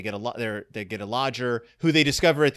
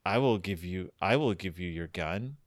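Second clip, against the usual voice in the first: menacing low voice; 6 semitones lower, 8 dB quieter than usual. Retold or imitated. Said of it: "our narrator's like".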